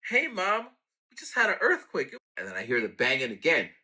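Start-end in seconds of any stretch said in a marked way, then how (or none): 0.0-2.1 2 high, eager call home after the quake; 3 calling out to mom, much higher; 4 a shaken son rings his mom, pitched way up; 1 excited call to mom. Retold or imitated.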